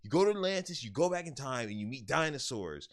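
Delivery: hammed-up friend insisting; earnest friend. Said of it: "He was so serious".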